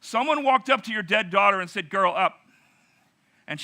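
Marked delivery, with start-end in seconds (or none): 0.0-2.4 excited. Real, not acted. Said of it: "Is that the understatement of the year".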